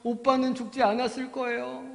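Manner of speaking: a touch of tears, drawn out; tearful Mary. Acted. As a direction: lament to Jesus as the weeping sister. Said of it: "막 마리아가 울었어요".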